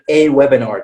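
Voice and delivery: "a webinar" with a stressed "ay"; full-vowel article. Shown as a demonstration. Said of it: "you would say".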